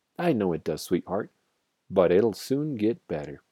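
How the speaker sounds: ordinary delivery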